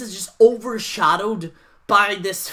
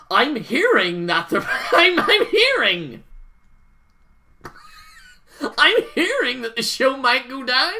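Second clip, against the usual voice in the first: laughing through a mock rumour; 4 semitones higher, 3 dB louder than usual. Mocking wrestling rumour reporters while laughing. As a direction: giggle out the fake scoop.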